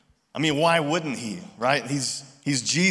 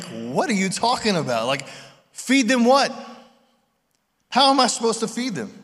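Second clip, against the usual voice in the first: baffled disbelief; 7 semitones higher than usual. Retold or imitated. Disciples baffled by Jesus' command.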